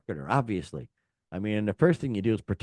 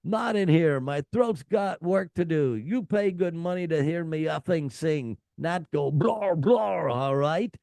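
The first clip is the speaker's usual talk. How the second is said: mock Bruce; 5 semitones higher than usual. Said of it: "he added".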